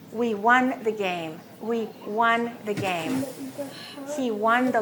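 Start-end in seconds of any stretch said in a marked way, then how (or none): 0.1-1.4 slow model phrase. Shown as a demonstration. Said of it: "That O is pronounced like this". 1.6-3.3 slow model phrase. Shown as a demonstration. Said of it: "That O is pronounced like this".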